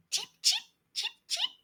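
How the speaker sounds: tiny high chirping cheeps, soft and quick; baby chick cheeps. Acted. Newly hatched chicks peep at Elephant, tiny high cheeping.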